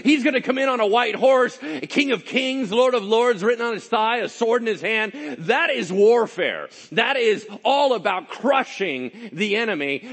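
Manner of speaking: loud, high-pitched preaching at full force; thundering proclamation. Real, not acted. Preacher warning the congregation of the king on a white horse, thundering.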